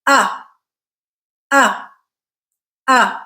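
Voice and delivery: each uh a relaxed central stressed vowel, clearly spaced; target vowel. Shown as a demonstration. Teacher gives listening practice samples, clear uh. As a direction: say the uh three times, evenly. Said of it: "I will say each vowel sound three times".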